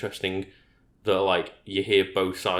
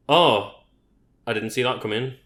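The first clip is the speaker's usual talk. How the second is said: put-on astonishment, big on the first word; mock surprise reaction; 3 dB louder than usual. YouTuber faking a reaction to a Nintendo Direct, mock surprised. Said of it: "exaggerated reactions".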